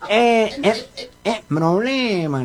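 mock nasal speech impediment; gangoso. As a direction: stammer it through the nose, consonants blurred. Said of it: "vos sos un gangoso igual que yo".

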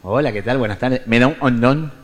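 lightly voiced nasal speech; mumbled as if through a blocked nose; mild imitation of a man with a speech defect; nasal gangoso voice. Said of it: "aquel gangoso que se mete en un kiosco y dice".

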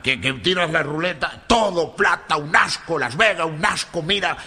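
put-on grumbling Spanish accent; disgusted Galician. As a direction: complain bitterly as a fed-up Galician. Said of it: "Volvió muy enojado el gallego". (gallego enojado, quejándose)

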